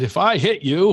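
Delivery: nervous deputy bluster; Barney Fife voice. Retold or imitated. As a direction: puff up like a jumpy small-town deputy. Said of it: "was like Barney Fife".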